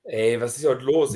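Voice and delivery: leicht lallend, angetrunken. Real, not acted. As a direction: lall die Worte etwas. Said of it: "Ich lalle". (betrunken lallend)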